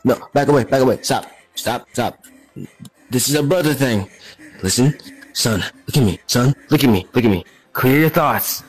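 firm fatherly calming. Acted. Father calming panicking son.

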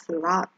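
"slot" as sloth, ending with tongue on front teeth. Shown as a demonstration. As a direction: finish "slot" on a th sound. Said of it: "เราจะต้องแตะลิ้นที่ตรง".

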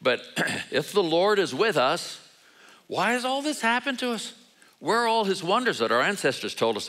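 mock-whining complaint, pitch jumping up on the question; hammed-up whine of a reluctant hero; whiny Gideon. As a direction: whine at God like a put-upon servant. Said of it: "He doesn't respond to the whine".

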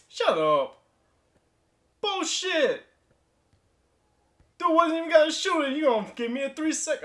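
fast, furious shouted complaint; angry outburst. Real, not acted. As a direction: yell at the game's bad call. Raging at the game's call.

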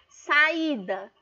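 "saída" said with A and I pulled apart; separated vowels. Shown as a demonstration. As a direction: split "saída" into sa-í-da, both vowels strong. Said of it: "são separados".

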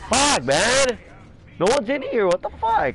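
high, loud angry yell at the game; furious yelling. Real, not acted. Gamer yelling at his useless team: high furious shout.

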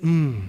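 low, soft "mm"; imitated low hum. Retelling a fellow passenger's reply, imitated low hum. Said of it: "Then he went".

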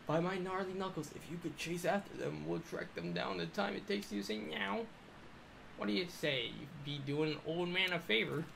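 put-on slow, high broken Asian accent old man. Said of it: "a really broken Asian man".

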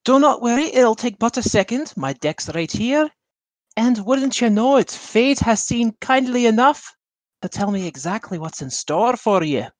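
lightly voiced smooth showman fortune teller. Player voices a fortune teller charming the princess's rival, lightly theatrical. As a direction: pitch your fate like a travelling seer.

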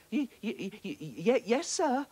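high, stuttering and scared; stammering little fish. A narrator's reading. Frightened little fish stammering to the bully octopus. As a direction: squeak it out, trembling with fear. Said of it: "bubbled the poor little fish".

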